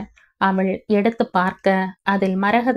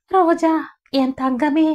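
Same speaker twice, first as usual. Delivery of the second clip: bursting into sobs; 8 semitones higher than usual. Acted. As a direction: voice breaking high on the words. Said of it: "விம்மி வெடித்து அழ".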